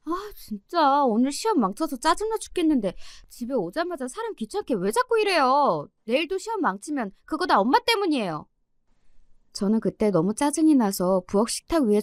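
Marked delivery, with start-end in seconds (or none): 0.1-8.5 put-on higher, exasperated teen whine; irritated snapping. 시험 망친 딸이 엄마에게 짜증내며. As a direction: lash out at mom after a bad exam. Daughter snaps at her mother.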